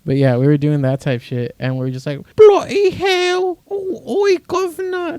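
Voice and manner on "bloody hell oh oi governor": very high, slow, hammed-up British accent; squeaky cartoon Cockney exclamation; shitty British accent. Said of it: "basic Brit stuff".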